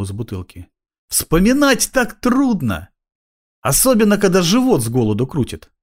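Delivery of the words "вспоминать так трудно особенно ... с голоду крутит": hint for a bribe with mock suffering; whining tramp. A narrator's reading. Tramp hints for food.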